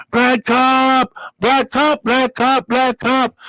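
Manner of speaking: worked-up insistence on black cop; emphatic repetition. Real, not acted. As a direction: pound the phrase again and again. Stressing the rarity of black cops.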